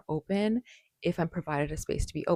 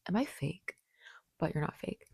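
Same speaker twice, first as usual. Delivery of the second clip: whispered; 5 dB quieter than usual. Real, not acted.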